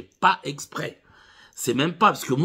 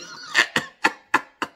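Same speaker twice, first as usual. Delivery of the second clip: burst of laughter; 3 dB louder than usual. Real, not acted.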